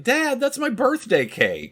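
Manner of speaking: squeaky daughter voice, high pitched; high girl voice. Retold or imitated. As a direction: pipe it up like an upset young girl. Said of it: "She's like".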